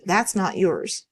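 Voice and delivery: slow, gentle and comforting; a calm inner voice that gently corrects; warm, comforting voice. Retold or imitated. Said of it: "So warm, so comforting".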